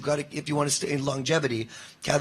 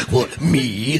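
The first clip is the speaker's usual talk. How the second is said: sinister little pony; slower than usual. Acted. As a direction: play innocent while clearly up to something. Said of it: "a little bit of a little pony".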